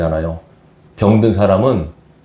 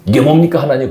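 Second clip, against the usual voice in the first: louder, higher grumble at God; mock complaint; 4 semitones higher, 4 dB louder than usual. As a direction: whine like an ungrateful believer. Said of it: "그러십니까?".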